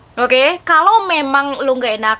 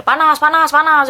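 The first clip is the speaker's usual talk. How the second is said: squirming hot friends; 3 semitones higher than usual. Retold or imitated. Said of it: "kayak kecacing kepanasan".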